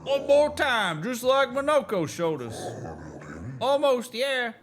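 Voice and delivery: high bright teacher voice demoing a dance; sing-song coaching. Acted. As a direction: coax them into the move, high and cheery. Coaching a dance move in-game.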